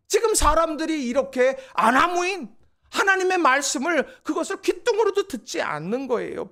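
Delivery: ordinary talk, nothing marked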